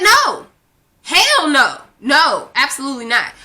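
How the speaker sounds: high, emphatic refusal, easing at the end. Retold or imitated. Woman recounting her answer to her ex, emphatic refusal.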